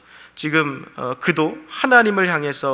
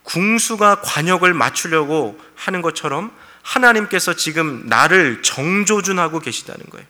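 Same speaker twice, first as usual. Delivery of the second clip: ordinary talk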